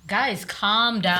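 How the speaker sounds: put-on slow, drawn-out plea from a kid; drawn-out mock peacemaker; imitating a child. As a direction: stretch it out like a child refereeing parents. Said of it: "she'll go".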